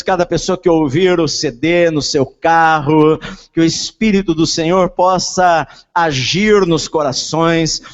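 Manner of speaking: loud, slow, impassioned praying; fervent prayer. Acted. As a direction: pray with rising fervor. Preacher prays over congregation.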